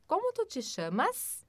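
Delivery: whispered translation. Shown as a demonstration.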